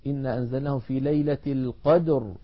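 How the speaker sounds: إن أنزلناه في ليلة القدر stopped on a still ر; recited verse. Shown as a demonstration. Teacher recites the verse as an example. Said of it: "وموقوف عليه".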